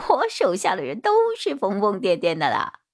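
a hint of an evasive underling; lightly voiced bald suspect. (略尖嗓子的光头嫌犯)

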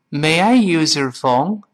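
slow, "use" and "your" kept apart; slow careful read. Shown as a demonstration. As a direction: read it slowly and clearly. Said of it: "我们慢慢读是这么来说的".

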